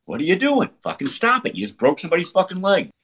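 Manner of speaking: high-pitched retold scolding, not shouted; going off on them. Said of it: "you go off on 'em".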